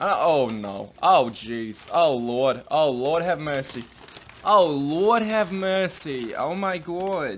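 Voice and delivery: put-on slow, drawn-out elderly voice. Fussing over a resealable cookie bag, slipping into an old Jewish couple impression. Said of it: "I got like a good kind of like an old Jewish couple".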